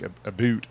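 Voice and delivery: "a boot" with a long oo sound like boot; the stereotype Canadian "a boot"; mock Canadian "a boot". Shown as a demonstration. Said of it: "and where we go, like".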